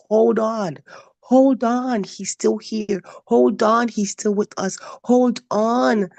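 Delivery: emphatic exhortation. Real, not acted. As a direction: urge the listeners on with conviction. Exhorting listeners to hold on.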